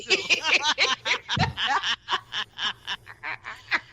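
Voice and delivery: high, drawn-out burst of laughter; long laugh. Real, not acted. Wife cracks up over stuff for him to do, laughing long. Co-host cracks up at own innuendo.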